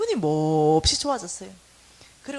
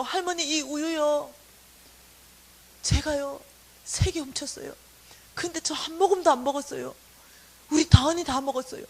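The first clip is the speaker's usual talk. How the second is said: put-on loud earnest childlike confession; pleading confession; 4 semitones higher, 5 dB louder than usual. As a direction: beg forgiveness with milk held high. (할머니 앞에 무릎 꿇고 고백하는 간절한 말투)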